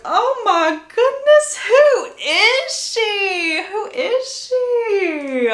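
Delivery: very high, loud, slow gasp of disbelief; drawn-out shocked wonder at her reflection; a new vampire stunned by her own face; stunned awe. Retold or imitated. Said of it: "And Bella is like".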